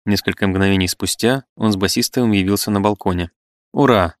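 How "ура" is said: joyful cheer. Acted. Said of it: "воскликнул он и обнял жену".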